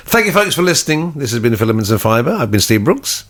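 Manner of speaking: a light mock radio-host sign-off. Host teasing co-host with a fake formal sign-off, mock announcer. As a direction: thank the listeners like a formal presenter. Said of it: "We don't sign off like that".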